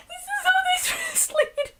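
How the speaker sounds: crying with laughter; high, laughing through the words. Real, not acted. Laughing at translation.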